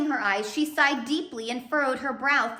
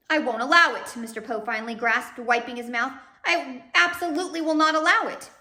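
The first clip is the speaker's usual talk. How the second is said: loud protest; 3 semitones higher, 6 dB louder than usual. Acted. Mr Poe coughing, protesting.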